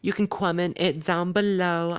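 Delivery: slow, accidental New York accent. Real, not acted. Host signing off to listeners in an accidental New York accent. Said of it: "I don't know why I'm from New York".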